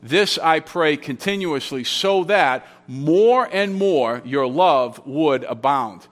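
measured reading that spaces out the key phrases; emphatic reading. Shown as a demonstration. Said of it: "That's the way to read that".

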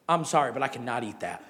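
laughing wife quote. Retold or imitated. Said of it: "My wife looks at me and goes".

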